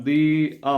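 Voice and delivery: ദി held long, then the vowel of "hour"; long "thee" before vowel. Shown as a demonstration. Teacher demonstrates "the hour", ദി said as long "thee". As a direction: stretch ദി before a silent-H word. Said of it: "ദി എന്ന് ചേർത്ത് പറയണം".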